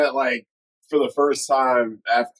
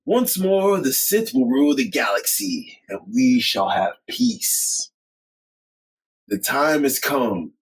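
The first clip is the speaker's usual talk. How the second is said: sinister decree; slower than usual. Retold or imitated. Quoting Palpatine.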